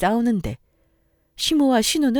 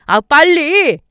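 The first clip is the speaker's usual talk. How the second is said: loud angry younger brother, higher; angry yell; 8 semitones higher, 10 dB louder, much slower than usual. Acted. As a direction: shout them out of the house. Husband yells at sister and mother. (크게 화내며 소리치듯)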